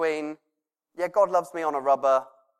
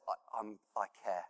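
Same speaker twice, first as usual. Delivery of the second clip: soft and lower, reassuring; low tender voice of God; 5 semitones lower, 14 dB quieter than usual. Pretend. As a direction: speak as God comforting gently.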